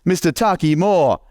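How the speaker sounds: announcer intro. Retold or imitated. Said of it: "gives me the, the best intro ever".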